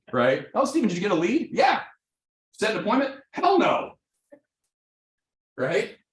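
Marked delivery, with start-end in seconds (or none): 0.5-4.0 mock office banter. Acted office exchange, two voices.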